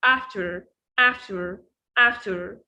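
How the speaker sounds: touch the t in "after" lightly. Shown as a demonstration. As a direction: repeat "after" evenly, t barely tapped. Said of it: "نطقها خفيفة".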